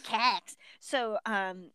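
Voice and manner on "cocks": "Cax" with a hard flat Cleveland A; Cleveland accent. Shown as a demonstration. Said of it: "the Cleveland accent is very hard A's".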